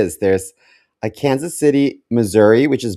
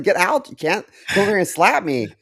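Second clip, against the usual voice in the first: outraged guy; 8 semitones higher than usual. Retold or imitated. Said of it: "He's like".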